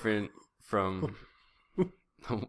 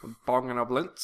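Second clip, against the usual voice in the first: Goldmember. Acted. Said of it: "Gold member?".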